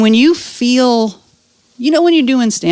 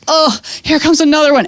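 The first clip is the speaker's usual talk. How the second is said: dreading next contraction; 7 semitones higher than usual. Retold or imitated. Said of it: "she was like".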